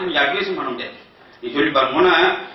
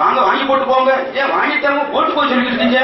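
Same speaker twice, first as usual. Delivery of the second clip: Kongu dialect; 6 semitones higher than usual. Retold or imitated. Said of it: "Coimbatore பக்கம் போனா அது ஒரு மாதிரி".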